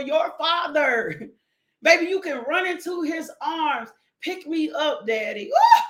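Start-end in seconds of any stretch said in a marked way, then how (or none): 4.2-5.8 put-on playful little-kid plea leaping into a woo; excited child to daddy. Child running into father's arms, gleeful squeal. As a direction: squeal up high, ending in a loud whoop.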